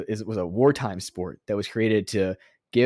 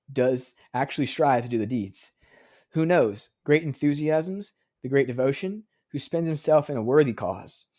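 solemn quote reading. Shown as a demonstration. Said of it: "I'm gonna read it".

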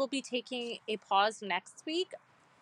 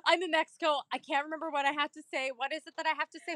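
panicked traveller lightly acted, higher and hurried; Tessa; 5 semitones higher than usual. Friend phoning from Mexico for Spanish help, mock flustered. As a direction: play a flustered caller stalling for words. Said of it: "Tessa calls me".

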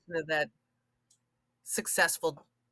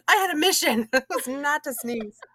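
mock tearful protest; 9 semitones higher, 6 dB louder than usual. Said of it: "you're like".

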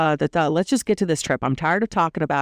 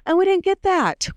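outraged disbelief. Real, not acted. Disappointed no food reveal.

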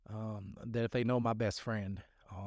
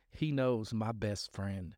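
slow emphatic; much slower than usual. Real, not acted. Testifying about Jesus.

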